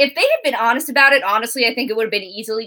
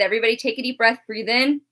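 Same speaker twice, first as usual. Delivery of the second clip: guided breathing. Shown as a demonstration. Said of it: "let's take a moment to let it out and breathe".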